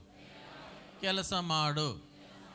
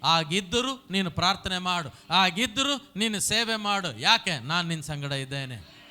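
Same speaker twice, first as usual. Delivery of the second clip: preached command; 7 dB louder than usual. Acted. Preacher voicing God's command.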